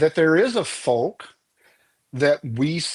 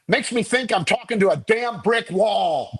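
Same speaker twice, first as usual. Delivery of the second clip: wry old rabbi, lightly voiced, a touch higher; deadpan rabbi punchline; 6 semitones higher than usual. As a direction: land it like a dry joke from a tired rabbi. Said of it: "the rabbi looks up at him and he goes".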